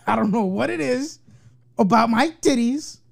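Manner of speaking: talking through laughter; laughing. Real, not acted. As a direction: giggle the words out.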